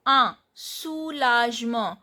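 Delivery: "A soulagement" syllable by syllable, no N; silent N. Shown as a demonstration. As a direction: keep the N out of "A" before "soulagement". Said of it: "I am not pronouncing this N".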